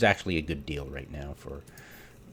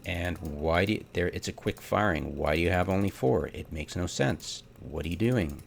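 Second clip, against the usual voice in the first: exasperated rant. Real, not acted. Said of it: "I tend to rant".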